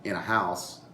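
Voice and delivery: "in a house" with in a squeezed into one quick syllable; run-together. Shown as a demonstration. Teacher demonstrating the contracted "in a" in skaldic verse. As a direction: glide "in a" together, then land on house. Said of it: "the way we say it".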